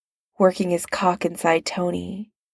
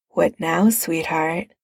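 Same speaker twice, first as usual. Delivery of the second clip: inviting. Acted. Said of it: "he said invitingly".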